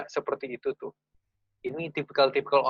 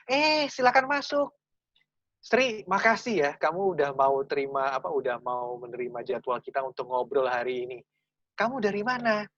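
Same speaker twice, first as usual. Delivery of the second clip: chatty friendly interviewer. Retold or imitated. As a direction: greet the candidate like an old friend. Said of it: "ini contoh kalau lagi nerima, orang I".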